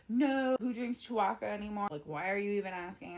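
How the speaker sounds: loud, high mock-incredulous "no"; scornful disbelief. Two guys scoff at the bartender's drink offer, mock-incredulous.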